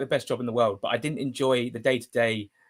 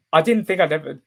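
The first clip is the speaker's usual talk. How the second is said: emotional; 4 semitones higher, 5 dB louder than usual. Real, not acted. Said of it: "get emotional like this".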